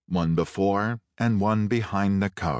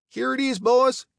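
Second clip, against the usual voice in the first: much higher call to the others; 4 dB louder than usual. A narrator's reading. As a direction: call it out, pleased, holding up the bag. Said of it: "he called".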